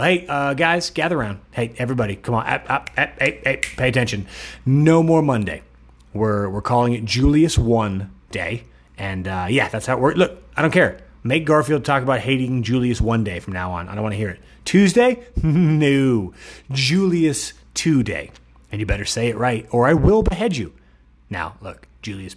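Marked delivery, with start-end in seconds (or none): 0.0-8.6 Julius Caesar voice. Retold or imitated. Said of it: "Just walking into the cathedral". 14.6-20.7 Julius Caesar voice. Retold or imitated. Voicing Caesar decree.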